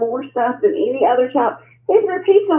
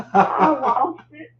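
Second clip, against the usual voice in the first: laughing; much slower than usual. Real, not acted. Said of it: "I was crying".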